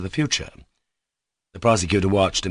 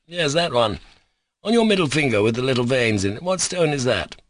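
put-on peevish child; 3 semitones higher than usual. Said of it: "like a peevish child".

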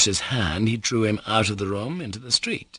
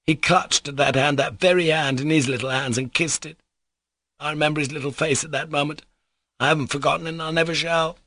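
high-pitched, fervent recollection; excitable man stirred by the memory; moved captain; 7 semitones higher than usual. Acted. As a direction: recall it with feeling, pitch held up. Captain remembers his son's face.

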